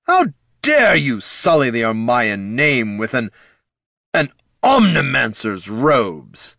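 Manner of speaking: high, loud, appalled lich shriek; outraged shriek. Acted. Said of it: "surprised shriek".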